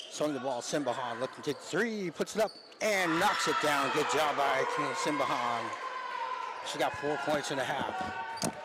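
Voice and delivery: basketball call building to a made shot; live play-by-play. Real, not acted. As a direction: lift the call as the shot drops.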